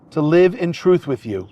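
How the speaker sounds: officiant feeding vows phrase by phrase; short phrases with pauses. Shown as a demonstration. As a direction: say each phrase, then pause for the repeat. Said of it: "repeat phrase by phrase after me".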